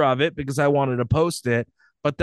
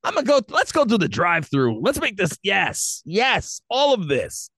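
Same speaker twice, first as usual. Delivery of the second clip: hammed-up boyfriend; 6 semitones higher than usual. Continues mock boyfriend dirty talk.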